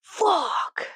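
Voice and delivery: disappointed fuck. Retold or imitated. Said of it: "I was just like".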